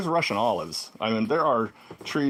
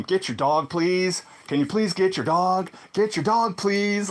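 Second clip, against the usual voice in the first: higher and louder urgent yell; retold yelling; 6 semitones higher than usual. Cyclist to dog owner, urgent yell. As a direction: shout for the owner to grab her dog. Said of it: "I'm yelling this loudly".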